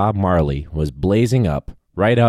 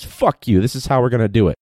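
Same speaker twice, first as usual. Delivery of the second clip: mock angry yell at a ref; 3 semitones higher than usual. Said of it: "got angry at a ref".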